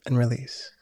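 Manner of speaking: breathy whispered cue to let go. Acted. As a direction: whisper the release softly.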